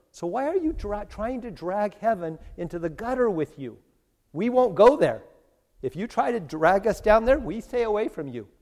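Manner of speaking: high-pitched, protesting refusal; acted rebuke. Heaven's residents refusing to be dragged down, high acted protest.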